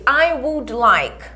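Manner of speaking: each word drawn out for repetition; teacher modelling I would like for the class; slow model phrase. Shown as a demonstration. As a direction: say it slowly so students copy.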